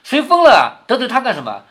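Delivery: high-pitched, lightly acted sharp comeback; barbed retort. Teacher replays Qingwen's reply for the class, mildly barbed. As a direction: throw out the question with a sting. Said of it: "说话带刺的".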